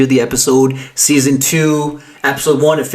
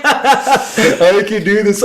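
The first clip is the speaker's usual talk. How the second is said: slow mock movie line; 5 semitones higher, much slower than usual. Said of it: "Say the line".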